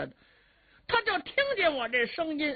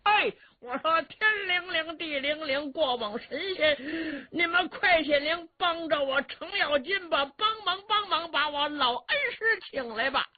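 high shouted plea; 10 semitones higher than usual. A narrator's reading. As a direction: shout an invocation high, begging the old master for rescue. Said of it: "冲着山上高声喊嚷". (冲着山上高声喊嚷求救)

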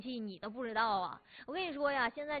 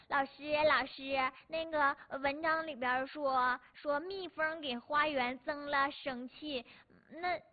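put-on child voice; 3 semitones higher, slower than usual. Child asks teacher a question.

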